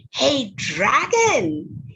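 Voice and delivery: drawn-out call. Acted. Princess calls at dragon's door.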